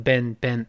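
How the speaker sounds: "been" said like "Ben"; short open e. Shown as a demonstration. Teacher repeats the American vowel, "been" like "Ben". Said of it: "所以口型略大".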